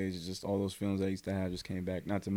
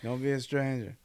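raised-pitch teasing call-out; mock yell; 5 semitones higher than usual. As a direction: re-enact a friendly call after someone. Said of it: "we're just yelling at him".

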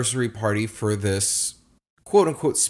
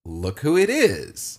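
pointed announcement; 5 semitones higher, slower than usual. Retold or imitated. Retold signal to friend across table.

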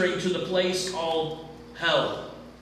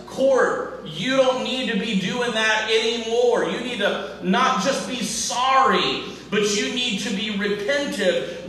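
loving father tone; 2 semitones higher than usual. Acted. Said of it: "a loving father tone that says".

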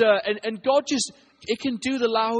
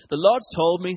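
lightly put-on American accent; amateur American accent for a retold quote; attempted American accent; 3 dB louder than usual. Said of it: "in my best American accent".

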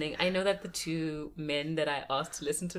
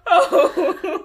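laughing; 11 semitones higher, 11 dB louder than usual. Real, not acted. Moved by cousin's babbling.

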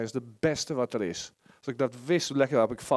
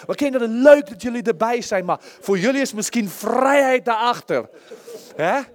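calling out; 6 semitones higher, 9 dB louder than usual. Real, not acted. Calling out to children.

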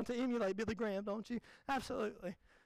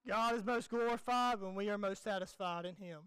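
John Piper impression; 4 semitones lower than usual. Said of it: "I'm gonna impersonate John Piper".

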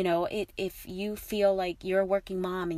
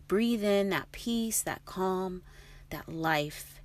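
soothing; 4 dB quieter, slower than usual. Real, not acted. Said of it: "invites listener to breathe".

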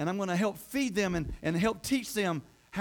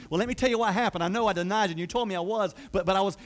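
acted defensive explanation, slightly raised; explaining himself; 4 dB louder, faster than usual. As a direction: play someone hurrying to justify himself. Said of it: "he had to explain".

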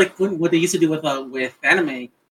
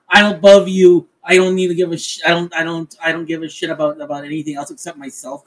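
regal. Acted. Fighter looking down on everyone, mildly regal. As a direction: put on a touch of lofty disdain, then let it drop. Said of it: "like, this regal".

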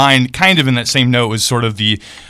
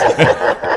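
robot laugh; 4 semitones lower than usual. Real, not acted. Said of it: "There's the robot laughing noise".

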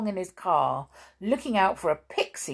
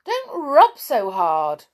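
very high, loud pained protest; yelp, then scold crossly; 9 semitones higher, 9 dB louder, slower than usual. A narrator's reading. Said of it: "getting cross".

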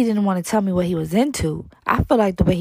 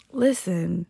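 soft unvoiced whisper of "Listen"; 4 semitones lower, 6 dB quieter than usual. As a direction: lean in and whisper it. Hushed start of ideal answer.

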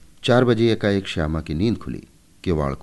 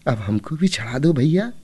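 put-on higher child voice, begging her brother; pleading little sister; 8 semitones higher than usual. A narrator's reading. Shyama begs brother Keshav to climb too, pleading. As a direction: coax your big brother to lift you up. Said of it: "Shyama ने गिड़गिड़ाकर कहा".

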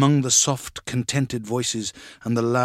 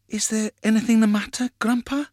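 put-on higher, quick young voice; child's question; 9 semitones higher than usual. A narrator's reading. Grandchild to Grandpa at the bedroom door, higher-voiced query. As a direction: ask as the grandchild, pitched up.

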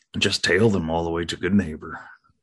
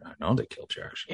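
hushed; 4 semitones higher, 8 dB quieter than usual. Pretend. Hiding, whispering reply.

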